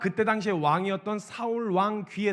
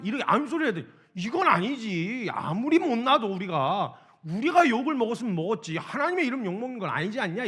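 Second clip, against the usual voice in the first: put-on a touch of a young man's indignation; heated insistence. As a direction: press each word home in outrage. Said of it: "흥분을 감추질 못하고".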